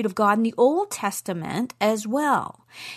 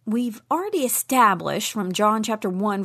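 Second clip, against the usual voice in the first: ordinary talk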